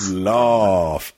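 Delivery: "Laugh" as lahf with a long ah; "Laugh" with a long southern ah. Shown as a demonstration. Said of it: "what he meant was laugh".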